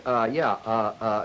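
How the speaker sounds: demonstrated filler uh sounds; hesitant uh uh; hesitation uh. Shown as a demonstration. Lecturer showing vocal segregates to students, hesitant uhs. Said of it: "the uh sound you hear".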